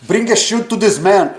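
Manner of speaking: slow, mock African accent like in Wakanda; lightly put-on Wakanda-film African accent, drawn out; imitating Wakanda accent. Imitating Black Panther film characters for a friend, slow mock African accent. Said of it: "Os caras falam assim mesmo".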